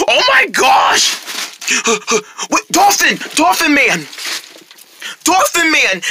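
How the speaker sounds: high, urgent calls; frantic calling. Acted. Rabbit calling Dolphin Man for rescue, frantic. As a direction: call out in panic.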